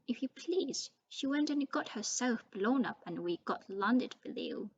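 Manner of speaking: ranting. Acted. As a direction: pour out years of resentment. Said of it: "went ranting on".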